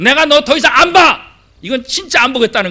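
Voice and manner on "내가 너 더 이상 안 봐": loud, high angry threat; angry parent threat. Retold or imitated. Parent threatening never to look at the child again, loudly. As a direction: snap it at the child.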